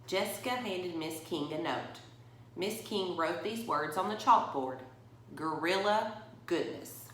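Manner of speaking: put-on reading a picture book to children; story reading. A narrator's reading. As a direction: tell it to the kids at story time. Reads picture book aloud.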